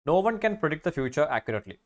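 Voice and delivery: slow, deliberate test sentence; slow reading aloud. Shown as a demonstration. Teacher reading a grammar question to the class, slowly. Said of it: "reads exam sentence slowly".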